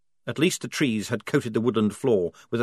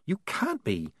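hissed; 6 semitones higher, 6 dB quieter, slower than usual. Acted. Polly hisses at Maledict not to wake Shufti, hushed. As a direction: hiss it so the sleeper won't wake. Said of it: "she hissed".

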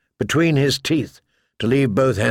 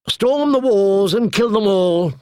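higher, bored order; 7 semitones higher than usual. A narrator's reading. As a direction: order the slaughter lazily. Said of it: "in a bored voice".

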